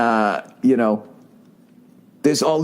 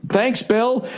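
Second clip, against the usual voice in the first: higher, mildly cheerful suburban thanks; a bland neighbor casually thanking, pitched up; polite suburban neighbor; 8 semitones higher than usual. Retold or imitated. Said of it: "Just classic cul-de-sac".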